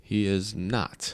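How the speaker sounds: slow, monotone robot voice. Acted. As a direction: answer like a flat robot. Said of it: "I don't know why I'm talking like a robot".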